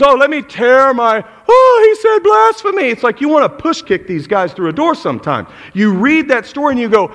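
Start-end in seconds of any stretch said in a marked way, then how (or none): 0.0-2.9 high, loud hammed-up outrage; mock a melodramatic priest crying blasphemy; preacher mocking a priest as a drama queen. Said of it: "Drama queens".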